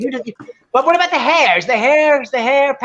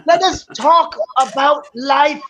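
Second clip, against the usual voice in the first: imitating Greg's show intro; 2 semitones higher than usual. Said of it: "he does the whole thing".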